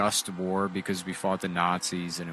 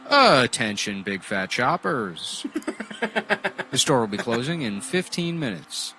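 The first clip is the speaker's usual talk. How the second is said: supermarket announcement; 3 semitones higher, 4 dB louder than usual. Retold or imitated. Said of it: "getting on the P A".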